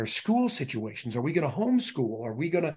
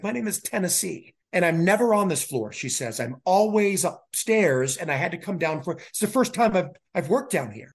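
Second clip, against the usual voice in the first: bubbly nurse; 4 semitones higher than usual. Retold or imitated. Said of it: "She's like".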